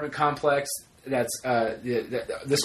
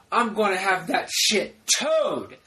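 retold angry scream; 4 semitones higher, slower than usual. Telling Sarah he wants it towed, mock screaming. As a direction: drag out the threat, then pitch the curse up. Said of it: "I'm screaming really".

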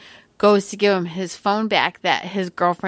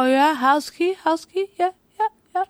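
eager mock voice; 8 semitones higher than usual. Acting boyfriend's eager reply.

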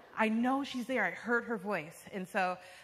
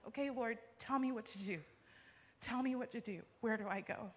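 soft, slightly raised pleading voice; hushed retold prayer; 3 semitones higher, 7 dB quieter than usual. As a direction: quietly beg for guidance. Retold anxious prayer for guidance.

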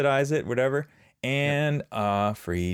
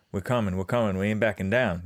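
Ed Ogeron impression. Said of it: "my impersonation of Ed Ogeron from L S U".

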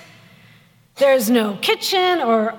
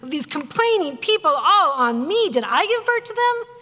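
exasperated yelling; 5 semitones higher than usual. Retold or imitated. Stressed Moses yelling at God about the people, mock exasperated. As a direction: complain in exasperation, pitch climbing. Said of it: "he yells at God".

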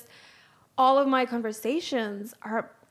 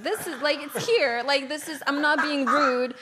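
raised, emphatic self-quote; insistent explaining; 3 semitones higher than usual. Retold or imitated. Guest showing strangers Google Maps, insistent explaining. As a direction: press the point, pleading not to seem rude. Acting out her map explanation.

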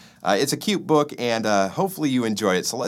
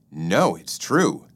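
lying; 2 semitones lower than usual. Acted. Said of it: "Bad Fred lied".

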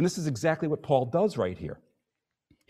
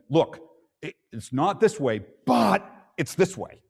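emphatic Paul; 4 dB louder than usual. Retold or imitated. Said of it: "almost like Paul saying".

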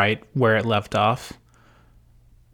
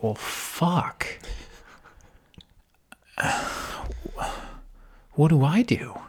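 despairing Jon; 5 semitones higher, 3 dB quieter, slower than usual. Retold or imitated. Jon lost and dejected.

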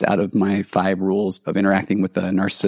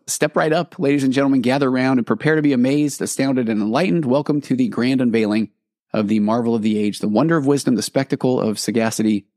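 carnival barker. Pretend. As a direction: step right up, sell it like a fairground barker. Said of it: "I wrote as if it were a carnival barker".

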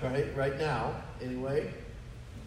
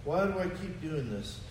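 quiet despairing quote; 2 semitones lower, 6 dB quieter than usual. Retold or imitated. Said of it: "he said".

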